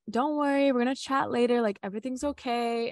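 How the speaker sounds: retold reassurance. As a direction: reassure as a retold boyfriend would. Retold partner reassuring her.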